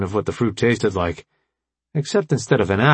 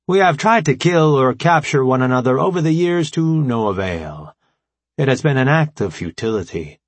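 formal AI commander, raised and emphatic; brief the allies in a higher, deliberate voice; Alpha Prime; 4 semitones higher than usual. Acted. Voices the AI leader explaining.

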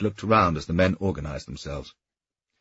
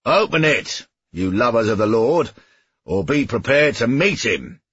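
loud shout at the gate; 6 semitones higher, 6 dB louder than usual. A narrator's reading. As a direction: shout it over the walls. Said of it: "he shouted".

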